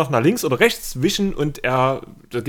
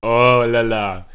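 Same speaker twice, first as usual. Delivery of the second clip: put-on French accent; 2 semitones lower, 3 dB louder, much slower than usual. Joins the French joke.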